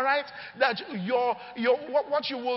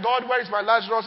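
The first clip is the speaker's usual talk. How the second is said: loud pleading cry to God; 5 dB louder than usual. Retold or imitated. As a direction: call out loud, asking where Lazarus is.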